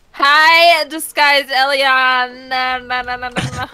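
flirt awkwardly in character; flirty character. Acted. Character flirting with disguised Elion, lightly sing-song. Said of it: "quit flirting".

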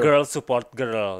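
put-on "girl support girl" drawn out slowly; careful pronunciation. Shown as a demonstration. Podcaster showing co-host how to say "girl support girl", slow careful pronunciation. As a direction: say "girl support girl" at half speed, word by word. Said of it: "Gimana sih ngomongnya?".

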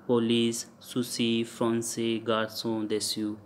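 "police, souci, français, garçon, déçu" with c as s; s sound. Shown as a demonstration. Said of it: "So s sound".

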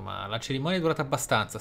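ordinary talk, nothing marked

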